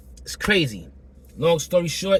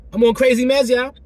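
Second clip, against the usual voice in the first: exclaiming; 10 semitones higher, 8 dB louder than usual. Real, not acted. Exclaiming about meds.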